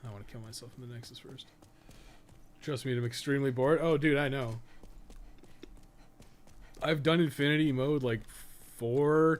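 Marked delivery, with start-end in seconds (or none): none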